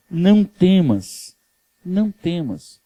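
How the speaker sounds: slow, soft do not fear; calm a frightened man, gently; gentle reassurance. Acted. Jesus acalma Simão com ternura.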